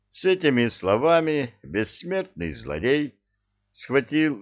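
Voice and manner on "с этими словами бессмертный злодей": ordinary delivery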